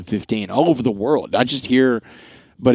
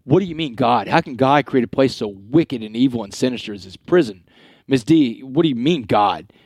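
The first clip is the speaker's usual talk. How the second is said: mildly indignant challenge, pitched up at the start; retold anger. Inmate challenging the chaplain about God, retold mild anger. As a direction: retell an angry demand with a touch of heat. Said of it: "I got so mad".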